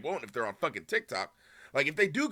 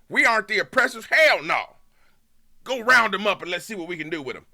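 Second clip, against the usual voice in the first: Southern racist twang; 5 semitones higher, 7 dB louder than usual. Acted. Streamer mocks a racist viewer in a loud Southern twang. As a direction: ham up a racist yokel rallying the mob. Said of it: "same Southern twang for both the white racist".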